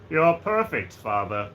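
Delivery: slow, weighty villain voice; mock villain father. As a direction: draw it out grandly. Vader line continued as Perfect Cell.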